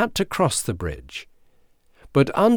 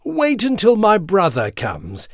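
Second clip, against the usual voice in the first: higher, clear middle-goat voice; light, high billy goat; fine, clear goat voice; 8 semitones higher, 3 dB louder than usual. A narrator's reading. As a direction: pipe up finely and clearly. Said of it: "in his fine and clear voice".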